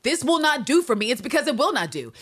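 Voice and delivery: flatly refuse, rising in force; firm Anne refusal. Retold or imitated. Anne refusing Walker's marriage plan, loud and firm. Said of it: "where Anne's like".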